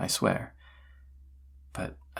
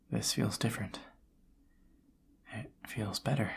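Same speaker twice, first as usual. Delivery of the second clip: intimate murmur; 5 dB quieter than usual. Acted. Intimate talk between kisses.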